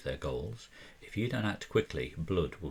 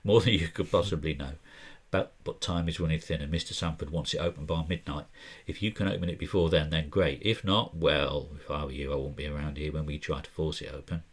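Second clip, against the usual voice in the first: Nathan voiced in a vague put-on accent, a bit louder; 3 dB louder than usual. Game master voicing Nathan to the investigators in a loose accent. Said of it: "I don't know why I'm doing this accent".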